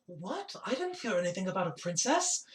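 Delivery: startled, rising question without real shouting; mock loud outburst. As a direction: play at blurting it out too loudly. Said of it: "like, really loud".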